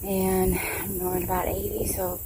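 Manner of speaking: talking while chewing; mouth full. Real, not acted. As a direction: speak around a bite of sandwich. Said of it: "I'm eating my Uncrustable".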